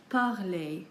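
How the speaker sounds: PARLER ending in a clear "ay"; French é sound. Shown as a demonstration. Teacher giving examples on screen, French é sound. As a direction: say PARLER slowly, final syllable "lay". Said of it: "it is pronounced like A".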